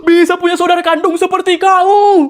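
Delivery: fake-sob the praise; mock tearful pride. Relative to the winner's sibling, hammed-up proud tears.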